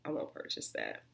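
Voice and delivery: whispered, half to herself. Real, not acted. Telling viewers she won't rebuy the cleanser, in a whisper. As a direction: breathe the verdict with no voice.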